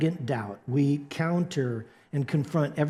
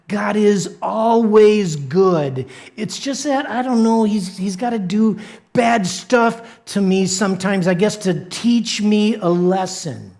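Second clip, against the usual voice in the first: louder, earnest pushback; insistent protest; 3 semitones higher, 6 dB louder than usual. Acted. A believer pushing back at the devil, loud insistent protest. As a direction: argue back hard against the doubt.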